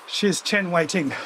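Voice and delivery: slow, careful "Chen Wei Ting"; careful name. Shown as a demonstration. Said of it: "you pronounce the family name first".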